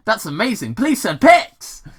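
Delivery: high, awed goofball voice; gullible Wade. Acted. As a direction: gush like a dim deputy. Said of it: "Wade said".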